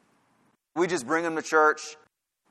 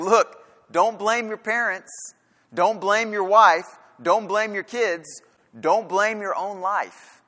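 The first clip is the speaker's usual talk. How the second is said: slow, higher, insistent; emphatic voice of Jesus; 5 semitones higher, slower than usual. Acted. Preacher voicing Jesus to his followers, slow and insistent. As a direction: press each don't as Jesus.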